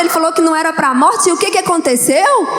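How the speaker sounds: mocking taunt. Pharisee taunts grieving believer.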